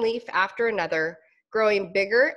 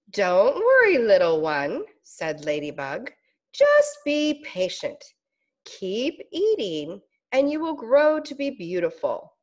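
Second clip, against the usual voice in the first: kind ladybug. Acted. Ladybug comforting the caterpillar, lightly voiced and gentle. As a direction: soothe the little one, unhurried.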